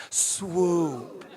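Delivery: "Swoop" drawn out with a chuckle; swoop with a laugh. Shown as a demonstration. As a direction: lead the room through it, laughing. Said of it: "Can you say it with me?".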